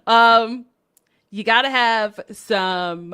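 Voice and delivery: loud, laughing enthusiasm; excited. Real, not acted. Excitedly pitching favourite road-trip music.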